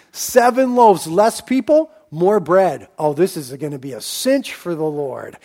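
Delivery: a disciple who can't wait to see the miracle; hammed-up excitement, some words punched loud; excited Andrew. Andrew imagined eager for a miracle.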